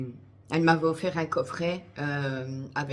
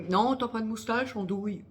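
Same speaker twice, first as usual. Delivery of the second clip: quoting her friend; 6 semitones higher than usual. Retold or imitated. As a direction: mimic the friend's cheeky denial. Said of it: "Elle m'a dit".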